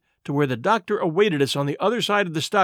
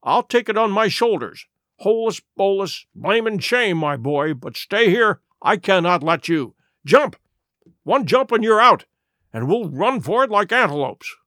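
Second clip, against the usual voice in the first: put-on raised, pressing the boy to jump; urgent urging; 3 semitones higher than usual. Doctor urging Jim to jump the fence, raised and urgent. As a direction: push him to run for it.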